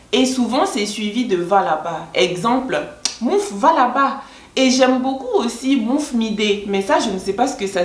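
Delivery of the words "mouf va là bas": raised-pitch mock dismissal; shooing someone away. Shown as a demonstration. Vlogger demonstrating how to chase someone off, dismissive. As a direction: send them off, playfully sharp. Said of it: "utilisé généralement pour chasser quelqu'un".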